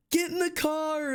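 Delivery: shrieked high, drawn-out yell; mock panicked call to hurry; imitating a yell. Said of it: "turns around and yells".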